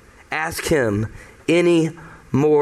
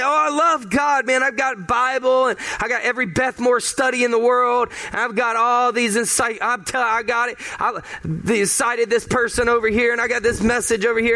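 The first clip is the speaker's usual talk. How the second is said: mock boastful believer; 3 semitones higher than usual. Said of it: "You say".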